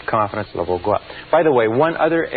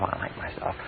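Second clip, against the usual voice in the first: barely audible whisper; saying it only to yourself under the breath; 13 dB quieter than usual. Shown as a demonstration. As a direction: breathe it silently as inner talk. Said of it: "If you say to yourself".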